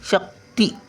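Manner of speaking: शक्ती split, short शक then ती; two-part pronunciation. Shown as a demonstration. Teacher showing letter order, शक्ती in two separate parts. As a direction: say शक, pause, then ती. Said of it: "बघा, शक-, नंतर ती".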